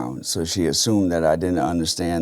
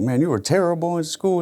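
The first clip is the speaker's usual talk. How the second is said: much higher, taunting put-on voice; mocking critic; 11 semitones higher than usual. People taunting him about his schooldays, higher mocking voice. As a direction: sing it out like a scornful old acquaintance. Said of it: "it's always like".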